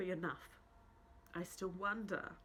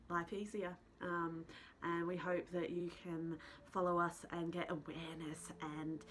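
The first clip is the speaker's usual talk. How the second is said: tearful, lower talk after crying; snotty crying; 3 semitones lower than usual. Real, not acted. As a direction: speak through the end of a good cry. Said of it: "Sorry for my ugly crying".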